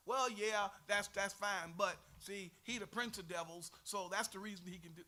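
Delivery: loud, dismissive mock of a grudging excuse; disdainful Pharisee. Teacher mimicking Pharisees for the class, loud mocking disdain. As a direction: sneer it out like a sour skeptic. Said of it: "how much disdain you have to have".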